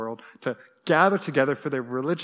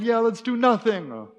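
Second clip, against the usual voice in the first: sarcastic thought; 8 semitones higher, 4 dB louder than usual. Retold or imitated. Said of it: "I'm thinking in my head".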